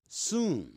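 "soon" high, with a long falling "u"; model word reading. Shown as a demonstration. Teacher reading the words over for students, model pronunciation. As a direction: stretch "soon" clearly for repeating. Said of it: "再把这几个字念一下".

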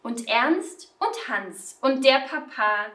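slow storytelling list in verse; expressive children's verse reading; poem recitation. A narrator's reading. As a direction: build up to the outcry.

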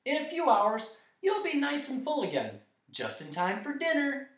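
high, consoling character voice; sympathetic. A narrator's reading. Dodecahedron comforting the humbug, sympathetic. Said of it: "from his most sympathetic face".

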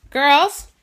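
loud call up the stairs. Real, not acted. Calling kids upstairs.

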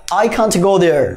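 "I can't go there" with aspirated kh; model sentence. Shown as a demonstration. Teacher shows the sentence to students. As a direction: say it as a clear model line. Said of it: "এইভাবে উচ্চারণ করতে হবে".

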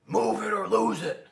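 loud, high, bossy teacher voice. Acted. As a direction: order them about like a strict teacher. Teacher bossing class.

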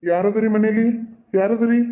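calling out. Acted. Visitor calls at the door to see if anyone is home, calling out.

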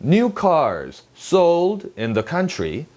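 "New cars sold", slight break, then "in the country"; slow, phrased "New cars sold in the country"; pause before preposition. Shown as a demonstration. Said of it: "전치사 앞에 퍼즈를 하고요".

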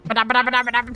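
flat robotic droning babble. Pretend. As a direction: drone it out like a robot. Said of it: "Y'all robot voice for me".

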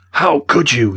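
loud reproachful cry; angry cry. A narrator's reading. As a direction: hurl the question in anger. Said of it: "he cried".

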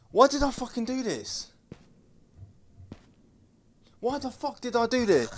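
high shriek easing into a wail; real panicked wailing. Real, not acted. Player regretting playing the horror game, wailing in panic. Overwhelmed by scares.

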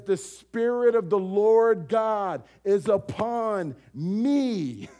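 slow, loud, weighty proclamation of the scroll; loud, slow solemn scripture reading; reading as Jesus. Acted. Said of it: "He says".

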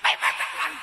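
put-on hushed soothing to the baby; coaxing whisper. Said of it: "Dia bujuk". (bisikan membujuk bayi)

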